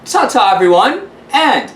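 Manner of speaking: lightly voiced grand London hostess; a hint of a theatrical lady calling everyone darling; gushing host signing off with ta-ta; Lillian Lampshire. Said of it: "this is Lillian Lampshire from the luxurious lap of London".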